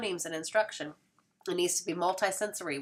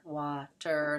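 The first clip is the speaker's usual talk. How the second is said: split syllables. Shown as a demonstration. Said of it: "say it fast".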